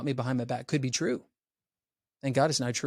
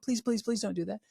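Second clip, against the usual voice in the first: mock pleading; 7 semitones higher, 6 dB quieter than usual. Voicing a pleading child.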